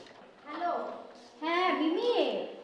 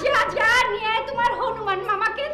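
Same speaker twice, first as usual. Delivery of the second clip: scornful dare. Acted. Daring him to fetch his uncle.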